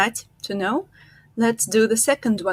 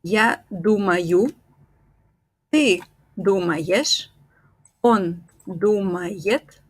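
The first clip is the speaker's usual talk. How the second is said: slow, careful conjugation; slow drill. Shown as a demonstration. Teacher drills each form slowly. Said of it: "slow conjugation drill".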